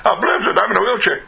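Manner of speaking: high, laughing disbelief at "Uplifted"; amused surprise. Retold or imitated. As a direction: toss it back with a surprised laugh. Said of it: "you come up to them and say".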